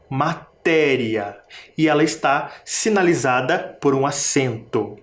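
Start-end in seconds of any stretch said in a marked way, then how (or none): 0.1-1.4 slow Matéria with the TÉ held; stress on TÉ. Shown as a demonstration. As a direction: hold the TÉ in Matéria. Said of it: "Também tem sílaba tônica". (Matéria devagar, com o TÉ tônico alongado)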